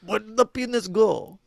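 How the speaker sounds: mock French accent. Officer asks after the evidence in French accent. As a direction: ask it in a put-on French accent. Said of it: "we do the French accent".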